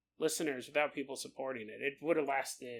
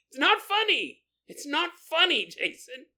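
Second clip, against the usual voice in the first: upset friend; 10 semitones higher, 6 dB louder than usual. Retold or imitated. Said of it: "He keeps going".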